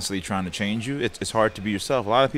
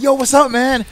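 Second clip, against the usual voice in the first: imitating a fan; 12 semitones higher, 7 dB louder than usual. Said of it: "they'll come up to me like".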